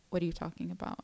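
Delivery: quiet puzzled question; low bewildered ask; confused. Retold or imitated. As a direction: ask softly, lost.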